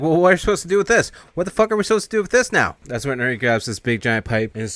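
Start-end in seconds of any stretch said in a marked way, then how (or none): 0.0-2.7 fast, high, loud panic; mock panicked yelling; freaking out. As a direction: scramble in a panic over what to do. They're all freaking out.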